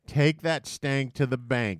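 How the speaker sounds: slow, savoured catchphrase; slow slogan read. Shown as a demonstration. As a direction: say it slowly like an ad tagline. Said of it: "should be the marketing campaign".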